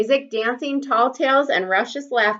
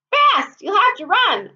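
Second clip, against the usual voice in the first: eager high call from a passing bike; urgent call; 11 semitones higher than usual. Acted. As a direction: hurry them along. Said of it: "Einar said".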